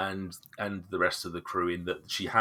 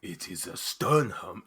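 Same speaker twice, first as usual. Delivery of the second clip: the voice she abandons; first NPC voice; slower than usual. Shown as a demonstration. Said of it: "I've got to change that voice".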